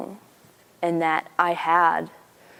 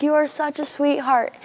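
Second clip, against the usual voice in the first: gushing Carol; 9 semitones higher than usual. Retold or imitated. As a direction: imitate a woman overjoyed at a kind stranger. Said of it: "She was like".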